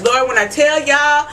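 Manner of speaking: ordinary talk, nothing marked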